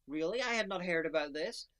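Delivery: sudden "you don't say" astonishment; incredulous. Retold or imitated. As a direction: act out eager disbelief, punched loud. Acts own surprised reaction to episode.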